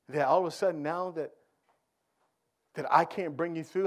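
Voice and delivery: gently chiding Jesus. Retold or imitated. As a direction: softly scold the scared disciples. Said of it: "he said to them".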